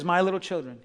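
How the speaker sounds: put-on soft, low address to little children; tender apostle. Preacher quoting the apostle John to his flock, tender apostle. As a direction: imitate a gentle elder, hushed. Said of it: "this is how he talked".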